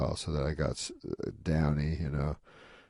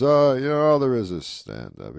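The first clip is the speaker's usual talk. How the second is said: Rodney, louder; 7 semitones higher, 8 dB louder than usual. Retold or imitated. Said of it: "He goes".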